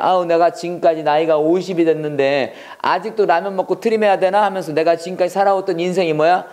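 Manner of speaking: acted weary grumble about one's life; a touch of self-pitying lament, lightly hammed-up; mild lament. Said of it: "할 때 쓰는 거야".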